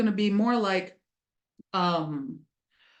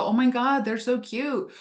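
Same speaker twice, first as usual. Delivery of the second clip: doting; 4 semitones higher than usual. Pretend. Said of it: "you can look at them and go".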